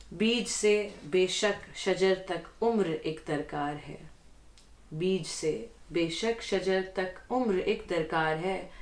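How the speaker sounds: measured Urdu poetry reading; ghazal recitation. Acted. Guest reads the host's ghazal before him, poetic recitation. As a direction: recite the couplet with deliberate phrasing.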